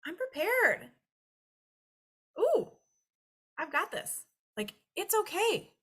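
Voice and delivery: high, chirpy self-congratulating voice; smug prepared self. Retold or imitated. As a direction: brag to yourself in a bright high squeal. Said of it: "We are like".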